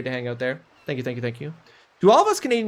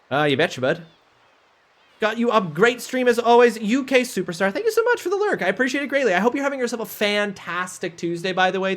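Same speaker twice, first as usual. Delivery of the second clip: put-on Canadian accent; 5 semitones higher than usual. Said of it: "I'm doing my Canadian accent right now".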